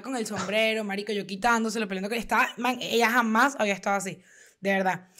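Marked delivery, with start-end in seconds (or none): none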